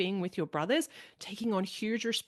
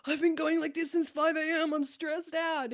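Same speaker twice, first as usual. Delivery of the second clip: much higher, exasperated wife, slowing at the end; imitating an overwhelmed wife; mock frazzled wife; 8 semitones higher than usual. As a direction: burst out as the stressed-out mother. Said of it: "And she's like".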